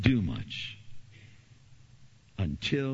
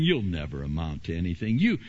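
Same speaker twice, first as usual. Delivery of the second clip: Sanballat sneering; 2 semitones lower than usual. Retold or imitated. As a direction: look down on the feeble builders. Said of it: "Sanballat said".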